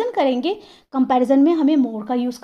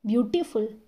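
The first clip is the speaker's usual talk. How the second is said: ब्यूटीफुल softly split into ब्यूटी and फुल; slight break in ब्यूटीफुल before फुल; pause mid-word; 4 semitones lower, 7 dB quieter than usual. Shown as a demonstration. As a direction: ease ब्यूटीफुल out in two parts. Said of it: "ऐसे ही तो बोला जाता है".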